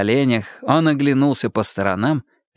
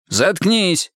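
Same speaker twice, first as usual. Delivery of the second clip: higher-pitched sharp command; curt order; 6 semitones higher than usual. A narrator's reading. Duty officer silencing detainee, curt sharp order. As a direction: shut him up curtly. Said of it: "велел дежурный".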